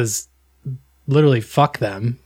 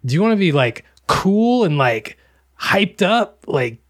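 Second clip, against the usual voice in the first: mock hype, pitched up on key words; 5 semitones higher than usual. Host mocking a nicotine podcast ad, hyped-up pitch. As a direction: sell it with swooping, higher-pitched emphasis. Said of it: "This was like".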